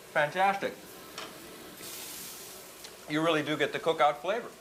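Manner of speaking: talking through a bite of steak; chewing while speaking; mouth full. Real, not acted. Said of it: "Pardon me for talking with my mouth full".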